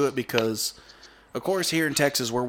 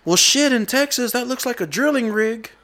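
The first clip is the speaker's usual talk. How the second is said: higher, mock-unimpressed uncle; Texan uncle's wisecrack; 11 semitones higher, 5 dB louder than usual. Uncle unimpressed by the Eiffel Tower, higher mock scoff. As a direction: pitch it up and scoff like a Texan seeing a drilling rig. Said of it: "He said".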